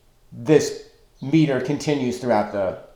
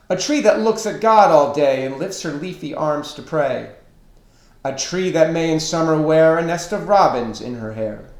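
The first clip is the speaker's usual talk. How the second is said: measured poem reading, pitched up at each new line; poem recitation; 4 semitones higher, faster than usual. Shown as a demonstration. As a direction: recite it in couplets, settling down at each line's end. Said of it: "I'll read it for you".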